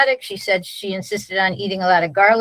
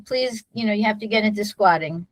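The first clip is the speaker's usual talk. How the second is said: very calmly. Retold or imitated. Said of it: "very calmly".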